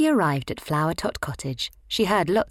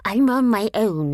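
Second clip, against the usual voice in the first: Slugsy's voice; 6 semitones higher, 7 dB louder than usual. A narrator's reading. Slugsy reassuring.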